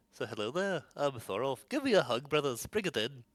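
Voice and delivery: put-on Liverpool voice, slowed. Speaker demos a second voice idea for the character Thorolf: famous Liverpool band voice. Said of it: "band voice".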